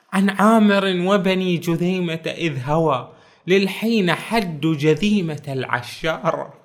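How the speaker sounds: rising, emphatic verse reading; poem recitation. Retold or imitated. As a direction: classical Arabic verse recital. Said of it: "قال عمار بن عقيل".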